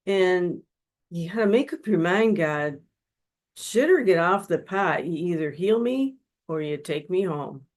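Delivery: confronting God, half-acted; angry demand.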